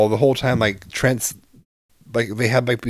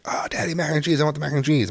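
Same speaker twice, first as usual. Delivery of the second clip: imitating child; 6 semitones higher, 3 dB quieter than usual.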